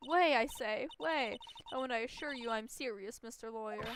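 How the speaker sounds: playful defiant boast; lightly voiced cocky witness. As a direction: toy with the lawyer.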